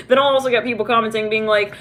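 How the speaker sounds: ordinary delivery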